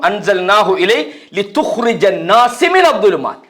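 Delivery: slow Arabic verse recitation; Quran recitation. Acted. Preacher cites the verse as proof, slow recitation. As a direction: recite with drawn-out syllables. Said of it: "அதாவது சொல்றான்".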